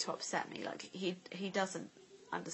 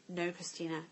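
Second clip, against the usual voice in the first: retold warning; 4 semitones lower than usual. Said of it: "I remember saying".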